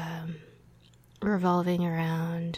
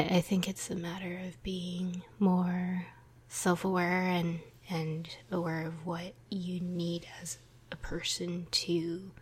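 whispering. Real, not acted. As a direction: keep it hushed, like others are asleep. Whispers the whole ramble.

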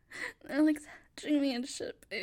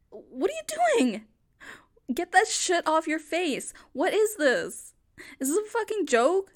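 furious shout; 2 semitones higher, 6 dB louder than usual. Acted. Woman screaming at her boyfriend filming her instead of helping. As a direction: yell at him to put the phone down.

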